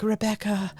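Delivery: light put-on English accent; imitated English accent. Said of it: "I wanna hear the accent".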